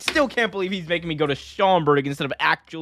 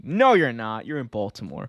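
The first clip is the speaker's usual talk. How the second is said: usual speaking voice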